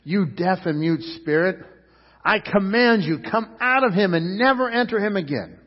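Jesus commanding loudly; commanding rebuke. Acted. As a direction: cast out the spirit with authority. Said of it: "he rebuked the impure spirit".

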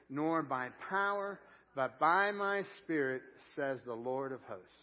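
slow, measured scripture recitation; slow, emphatic verse, easing down at the close; leading group reading. Shown as a demonstration. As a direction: draw out the phrases for a congregation reading along. Leads congregation reading aloud together.

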